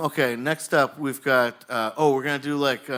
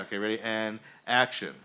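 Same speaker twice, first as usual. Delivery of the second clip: ordinary talk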